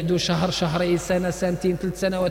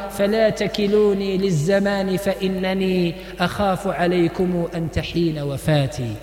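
poem recital; slower than usual. Acted. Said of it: "على لسان اللغة العربية".

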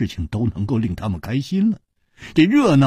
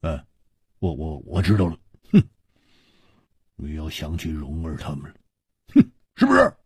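teasing laugh; 5 semitones lower than usual. A narrator's reading. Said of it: "笑着说".

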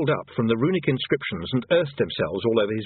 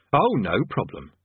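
sarcastic; slower than usual. Acted. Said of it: "said Rincewind sarcastically".

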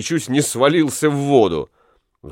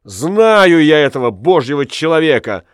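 bitter scorn; 3 semitones higher, 4 dB louder than usual. Acted. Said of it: "продолжал Ламме".

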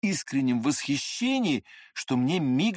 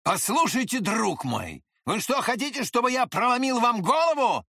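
angry shout; 10 semitones higher than usual. A narrator's reading. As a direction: shout at him in a rage. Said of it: "крикнул он Длинному".

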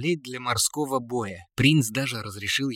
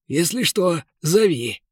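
encouraging; 6 semitones higher, 4 dB louder, slower than usual. A narrator's reading. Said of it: "подбодрил торговец".

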